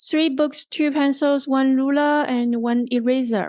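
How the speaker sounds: "books", "pencils", "ruler" held up, "eraser" falling; parallel list intonation. Shown as a demonstration. Teacher models a parallel list, falling on the last item. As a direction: keep each item up until "eraser" closes the list. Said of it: "like, a parallel".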